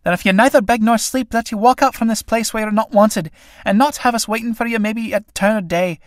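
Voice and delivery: fierce angry outburst at a lazy companion. Acted. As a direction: snap at her to get out. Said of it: "breaking out fiercely".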